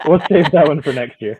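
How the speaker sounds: chuckling through the words; laughing. Real, not acted. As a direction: say it while still laughing. Joking about the scary ride.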